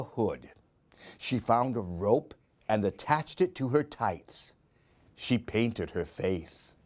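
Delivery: lively, sing-song storybook reading; animated picture-book read-aloud; reading to children. A narrator's reading. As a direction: read it like story time for little ones.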